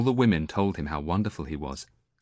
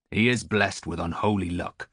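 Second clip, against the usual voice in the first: put-on old sailor.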